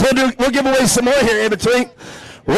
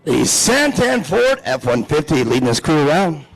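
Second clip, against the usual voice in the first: lower, measured driver introductions; race announcer; 6 semitones lower than usual. Real, not acted. Announcer introducing the drivers row by row, low announcer delivery. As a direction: present the starting grid over the PA.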